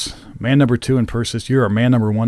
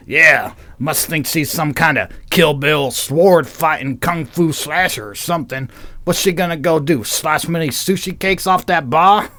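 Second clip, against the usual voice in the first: gruff biker; 4 semitones higher than usual. Acted. Biker mocking the sword-carrying stranger to his mate, mildly gruff. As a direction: jeer along as a biker mate. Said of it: "All bikers sound like that".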